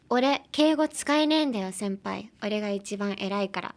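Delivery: brash, fast cocky delivery in Japanese; cocky anime line. Shown as a demonstration. Reading the anime line aloud to learners, cocky and fast. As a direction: toss it off like a smug delinquent. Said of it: "let's move on to pronunciation".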